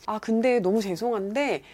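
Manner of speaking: mild-mannered, respectful inquiry; polite and composed. Retold or imitated. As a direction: ask gently, without any anger. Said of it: "정말 점잖게 저한테 전혀 화를 안 내고".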